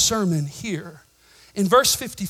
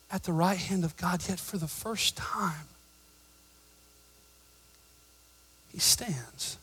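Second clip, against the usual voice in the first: hushed reveal; 9 dB quieter than usual. Real, not acted. Pastor revealing Jesus standing, hushed and awed. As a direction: drop to a whisper for the reveal.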